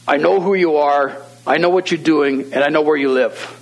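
a retold challenge called out, emphatic and measured; deep-voiced yell. Homeowner challenging a prowler through the cracked door, mildly mock-yelled. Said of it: "in his deep voice, he, he yells out".

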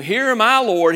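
preacher voicing Moses, eager and loud. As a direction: call out ready and willing. Preacher acts Moses answering God.

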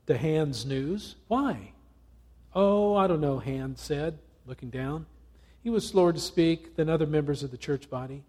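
lively storytelling read aloud; story reading. Acted. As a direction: read the parable with character voices. Reads parable aloud to congregation.

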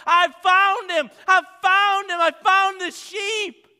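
high, loud joyful shouting; hooting and hollering. Retold or imitated. Shepherd shouting joyfully that he found the sheep. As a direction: holler it out with joy. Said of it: "He's hooting and hollering".

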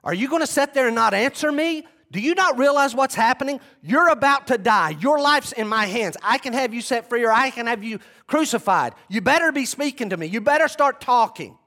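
bully him into answering; angry Pilate. Retold or imitated. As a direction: Pilate threatening Jesus to make him speak. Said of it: "I'm picturing Pilate again".

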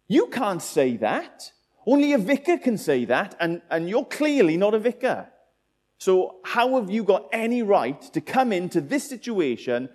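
emphatic mock indignation; indignant objection. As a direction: challenge an impostor as an outraged guest. Acted guest objecting to impostor.

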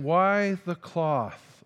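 slow, drawn-out mock disbelief; retold bewildered question; uneasy questioning. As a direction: stretch the question out, a touch of alarm. Retells his alarmed question on table.

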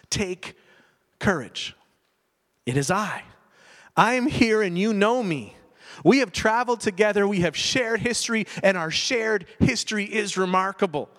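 gentle reassurance. Acted. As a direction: reassure frightened friends tenderly. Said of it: "Instead of that, he offered them something else".

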